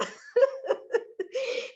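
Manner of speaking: a burst of high laughter at her own story; bright laugh. Real, not acted. Laughing as she retells the accident. Laughing after quoting God.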